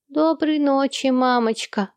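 put-on child's goodnight. Ernie saying goodnight to his mother, as an eager child. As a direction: say it like an eager little boy.

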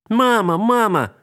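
высокий громкий детский зов; зови маму во весь голос; радостный крик. A narrator's reading. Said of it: "закричала она". (Алинка кричит маме с восторгом)

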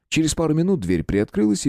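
plain reading voice

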